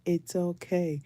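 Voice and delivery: put-on calm the children down slowly; reassuring. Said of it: "I'm like".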